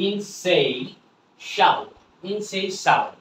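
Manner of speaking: ইনসেইসাবল broken up slowly, then said whole; pronunciation demo. Shown as a demonstration. Teacher builds the word for viewers, careful modelled pronunciation. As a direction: model ইনসেইসাবল as "in-sei-sha-bl". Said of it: "তাহলে উচ্চারণটা হলো কি?".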